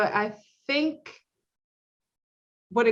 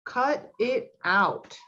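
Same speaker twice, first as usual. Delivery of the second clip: catchphrase delivery; much slower than usual. Retold or imitated. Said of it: "that was on Full House".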